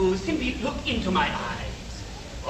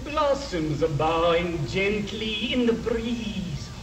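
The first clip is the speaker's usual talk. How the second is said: hypnotic. Acted. Hypnotist deepening the trance.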